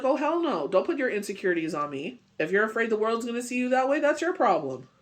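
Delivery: high, fast, indignant retort; imitating a sassy clapback; sassy tell-off. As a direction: put them in their place, fast and sharp. Telling off an insecure person.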